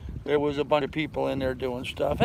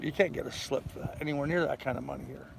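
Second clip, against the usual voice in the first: half-whispered, quick aside; 7 dB quieter than usual. Real, not acted. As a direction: drop to a whisper. Unvoiced aside about slips.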